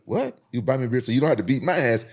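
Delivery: high mocking disbelief, voice jumping up on What; incredulous bully. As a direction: mimic a big guy scoffing. Rugby bully retorting incredulously.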